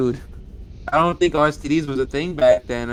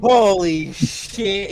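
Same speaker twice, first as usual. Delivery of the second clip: drawn-out surprise; much slower than usual. Real, not acted. Stretched exclamation.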